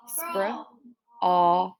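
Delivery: SPRA-AWL broken into separate sounds; segmented sounds. Shown as a demonstration. Teacher sounding out a word for pupils, segmented. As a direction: stretch and split "Spra-awl". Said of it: "aw is separate".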